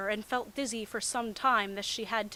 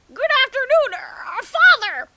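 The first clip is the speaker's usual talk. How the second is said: put-on timid girly greeting; 17 dB louder than usual. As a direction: squeak out a nervous hello. Hinata greeting father.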